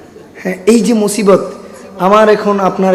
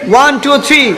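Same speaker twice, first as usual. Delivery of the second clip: higher lively count to start; 6 semitones higher than usual. Real, not acted. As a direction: count them in. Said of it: "ready?". (উঁচু স্বরে গুনে শুরু করানো)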